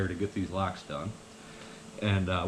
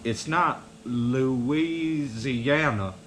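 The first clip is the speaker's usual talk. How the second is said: Southern buddy impression; much slower than usual. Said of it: "He said".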